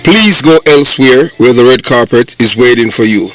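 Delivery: loud, punchy channel intro; announcer voice. Acted. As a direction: proclaim it like a radio announcer. Loud channel intro over music.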